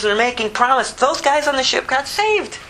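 usual speaking voice

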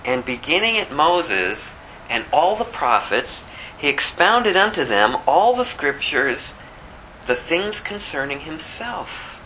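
slow, measured Bible reading; scripture reading. Acted. Preacher reading the verse to his congregation, slow and solemn. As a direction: read the verse slowly and solemnly.

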